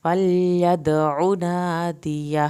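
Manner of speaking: "فلیدع" slow, bouncing the dal, short u on the ain; dal qalqala. Shown as a demonstration. Teacher to students: slow recitation. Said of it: "دال کا قلقلہ کریں".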